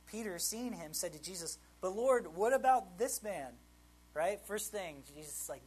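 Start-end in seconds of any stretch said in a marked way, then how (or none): 1.8-3.6 loud, drawn-out protest; indignant questioning. Acted. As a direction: press the question higher and louder. Peter blurts question to Jesus.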